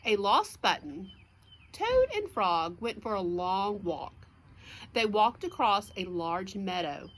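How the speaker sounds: clear, lively picture-book narration; reading to children. A narrator's reading. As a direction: read it out to little listeners.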